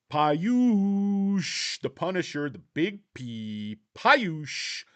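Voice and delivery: loud, high hype-man intro; hype announcer. Acted. Introducing a viewer Payush, loud hype-man announcing. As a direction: announce him like a wrestler.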